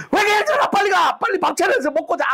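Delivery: high sulky wife ordering her husband. Retold or imitated. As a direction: snap at him in a sulk.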